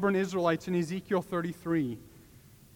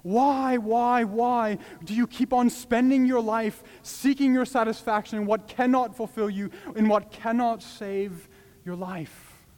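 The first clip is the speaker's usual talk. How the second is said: a rising, anguished plea, louder and higher; pleading; 5 semitones higher, 4 dB louder than usual. Acted. Man in the famine market pleading with starving crowd, higher and louder. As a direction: beg them to stop wasting their lives. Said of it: "begins to plead with them".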